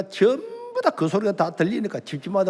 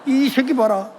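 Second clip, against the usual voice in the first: higher, scornful outburst; exasperated teacher; 9 semitones higher, 4 dB louder, slower than usual. Retold or imitated. Teacher loses patience with the silent student, exasperated. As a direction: spit it out in disbelief.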